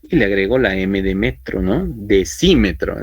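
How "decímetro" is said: slow, deliberate "Decímetro" with the stress on "cí"; careful pronunciation. Shown as a demonstration. Teacher modelling the word for students, slow and careful. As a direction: spell out "Decímetro" syllable by syllable, stress on "cí". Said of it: "decimos ya por cuestiones de fonética".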